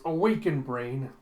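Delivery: mock grand command, loud first word falling away; commanding call. Scientist wakes a brain in a retold story, mock commanding. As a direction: rouse it with a light theatrical command.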